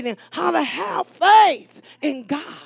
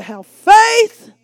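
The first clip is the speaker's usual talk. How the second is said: loud and higher, full-force proclamation; shouted command; 6 semitones higher, 10 dB louder than usual. Retold or imitated. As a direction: proclaim it like God's order. Quoting God at full volume.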